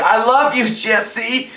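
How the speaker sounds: high, urgent declaration; dramatic love plea. Retold or imitated. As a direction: cry out your love. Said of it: "she's like".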